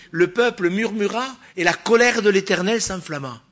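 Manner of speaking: verse proclaimed high and loud; Le peuple murmura declaimed loud and high, fiery pulpit voice; preaching at full force. Acted. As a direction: thunder the verse at the congregation.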